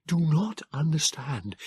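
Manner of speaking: slow, high, breathless voice; confused Morlock gasping at his companion. A narrator's reading. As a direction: gasp it out. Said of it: "he gasped".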